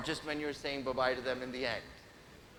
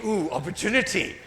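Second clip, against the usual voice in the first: sly voiced thought; 2 semitones higher, 5 dB louder than usual. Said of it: "Some are thinking".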